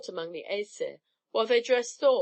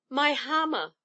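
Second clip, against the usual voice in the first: a roared outcry, higher and louder; 6 semitones higher, 3 dB louder than usual. Acted. Thor learns his hammer is stolen, roaring. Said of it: "roared Thor".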